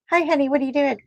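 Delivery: high, sing-out hello; real greeting to partner. Real, not acted. Woman breaks off her story to greet her honey, high-pitched hello.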